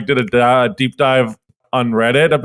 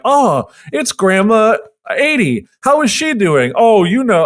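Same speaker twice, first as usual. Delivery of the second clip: Scottish woman; 6 semitones higher than usual. Retold or imitated. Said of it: "a Scottish woman and be like".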